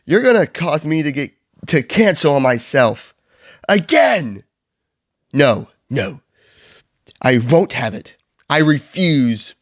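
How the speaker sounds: high-pitched, hammed-up protest; mock yell. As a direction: Grinch throwing a mild tantrum. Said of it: "he yells".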